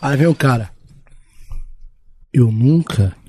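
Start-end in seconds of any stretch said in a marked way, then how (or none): 2.3-3.2 lightly put-on sexy voice, lower; understated sexy come-on. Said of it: "Voz sexy".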